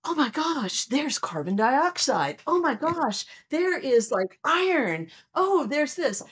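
astronomer excitement. Retold or imitated. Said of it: "to an astronomer, it's like".

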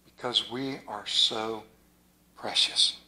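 breathy hushed whisper. Real, not acted. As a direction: breathe it to the congregation. Whispered aside in sermon.

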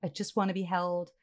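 softly pleading, voice dropping away; a quiet, needy confession to the woman beside him; quiet plea. Retold or imitated. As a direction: murmur it like a lonely man in bed. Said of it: "and he says".

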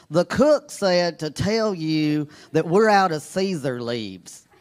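slow, straight-faced waitress line; deadpan waitress. Retold or imitated. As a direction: say it dead serious, no hint of a joke. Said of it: "with a totally straight face".

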